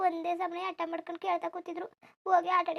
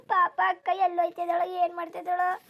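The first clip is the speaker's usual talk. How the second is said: louder, breaking into crying; tearful worry; 5 dB louder than usual. Acted. Younger sibling crying over the missing elder sister. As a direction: let the worry spill into tears.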